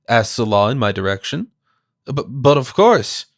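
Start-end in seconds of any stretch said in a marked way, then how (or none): 2.1-3.3 slow, stumbling start on the b; stuttering. Acted. Watson stuttering to Salah, caught off guard. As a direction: trip over the first word, flustered. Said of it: "I stuttered".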